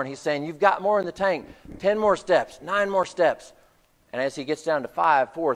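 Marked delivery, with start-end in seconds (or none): 0.4-3.5 higher-pitched urging, not shouted; urgent coaching. Retold or imitated. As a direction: spur on an exhausted player step by step. Retold coach urging on struggling player.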